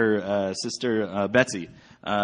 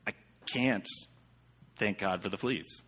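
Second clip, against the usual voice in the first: refusing; slower than usual. Retold or imitated. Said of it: "And Corey was like".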